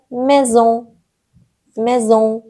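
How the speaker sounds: مزون ending in a nasal vowel. Shown as a demonstration. Teacher giving the example for letter M, مزون with nasal ending. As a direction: model مزون with the N only in the nose.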